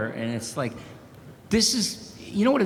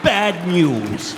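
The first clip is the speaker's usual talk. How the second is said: put-on old professor voice; 2 semitones higher, 6 dB louder than usual. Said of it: "I'll do some voices".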